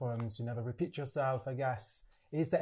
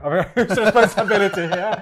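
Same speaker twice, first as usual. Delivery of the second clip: laughing; 7 semitones higher, 17 dB louder than usual. Real, not acted. Laughs while toasting.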